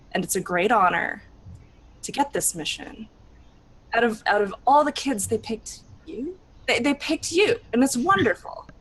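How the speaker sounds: proud, gentle mentor voice; lightly voiced proud mentor; motherly encouragement. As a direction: coax her kindly, voice swelling with pride. Mother figure encouraging Alizarin.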